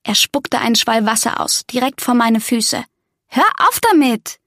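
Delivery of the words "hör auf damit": annoyed. A narrator's reading. Narrator character scolds gargoyle.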